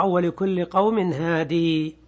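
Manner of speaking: slow recitation that keeps the final ya; Quranic recitation. Shown as a demonstration. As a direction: recite slowly as Ibn Kathir reads. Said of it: "ويقرأ". (تلاوة بطيئة بإثبات الياء)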